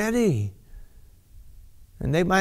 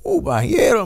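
overwhelmed; 9 semitones higher than usual. Real, not acted. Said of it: "just give me a second".

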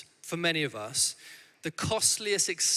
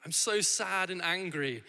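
put-on a lighter echo of the little girl's lament; child's dramatic wail; 4 semitones higher, slower than usual. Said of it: "she just shouted".

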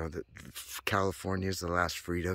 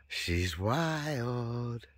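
higher; 4 semitones higher than usual. Shown as a demonstration.

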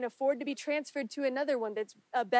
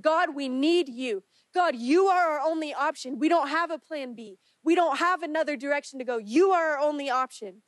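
louder, higher, pleading cry to God; urgent intercession; 3 semitones higher, 4 dB louder than usual. Acted. Preacher voicing the congregation's prayer, loud and desperate. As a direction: plead with everything, no plan B.

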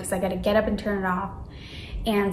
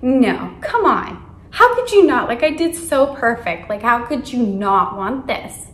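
indignant disbelief; 5 dB louder than usual. Retold or imitated. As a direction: demand to know how they could refuse. Rejected kid protesting.

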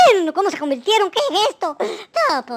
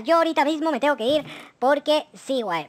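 ordinary talk, nothing marked

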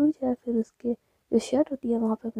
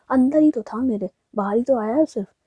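emphatic, raised-voice comeback; acted defiant reply, loud; loud retort; 10 dB louder than usual. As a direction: throw the answer back forcefully. Jiya retorts about her anger.

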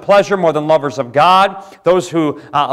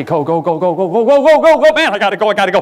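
rising, ever louder go go go; frantic hurry; 7 semitones higher, 5 dB louder, faster than usual. Pretend. Preacher mimics rushed modern life to the church, building to a frantic high shout. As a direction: build from busy to frantic, far higher and louder. Mimicking fast-paced society.

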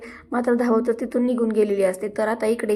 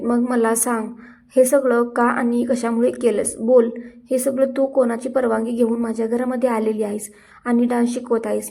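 मग मला सांग, louder and firmer this take; louder scolding; 3 dB louder than usual. Acted. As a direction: demand an answer with a raised voice. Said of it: "ती म्हणत असते". (मोठ्या आवाजात रागाने जाब विचारणे)

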